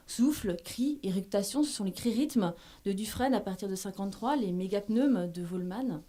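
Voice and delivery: measured, articulated lecture read from a script; formal paper reading. Acted. Literary scholar presents sound poetry to an audience, formal reading. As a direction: read out a scholarly text, phrase by phrase. Reads out her prepared paper.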